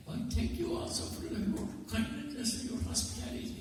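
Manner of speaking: high, breathy near-whisper thanks; guest's voice. Retold or imitated. Second guest thanking the farmer, high hushed voice.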